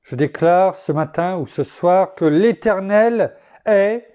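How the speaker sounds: measured, declaimed prayer-poem; poem recited to God; devotional poem reading. Acted. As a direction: read it out as a solemn poem, with pauses. Reads prayer-poem of thanks.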